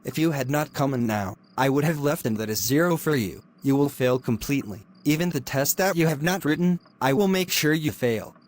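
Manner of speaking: cold, hushed threats from a lecturer; menacing hushed scolding. Acted. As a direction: keep it under your breath and menacing. Lecturer scolds late student.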